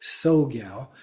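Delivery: "Sogyal" begun on a plain S; "Sogyal" with no T before the S; T left silent. Shown as a demonstration. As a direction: say "Sogyal" as if the T doesn't exist. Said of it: "pronounced as if that T doesn't exist".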